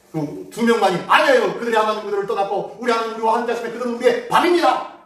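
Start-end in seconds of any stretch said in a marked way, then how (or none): 1.1-4.9 confident. Retold or imitated. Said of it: "자신 있게 얘기했지만".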